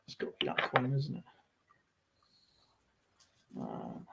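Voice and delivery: normal talking voice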